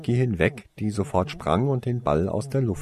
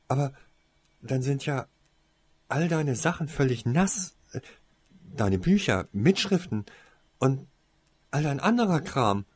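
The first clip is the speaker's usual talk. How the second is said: indignant; 6 semitones higher than usual. Acted. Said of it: "warf Cassandra empört ein".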